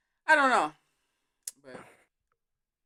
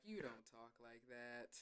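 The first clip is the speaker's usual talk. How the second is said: retold disbelief; 6 semitones lower, 21 dB quieter, slower than usual. Retelling reaction to the fake accent.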